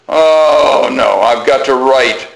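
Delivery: long groaned "oh" of mild dismay; mock groan. Kids hearing of a composition assignment, mock groaning. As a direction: groan it out like a put-upon pupil. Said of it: "everybody would groan".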